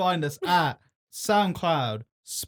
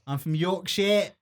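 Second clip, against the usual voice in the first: put-on broader Yorkshire accent, more projected; 4 semitones higher, slower than usual. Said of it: "this is a bit".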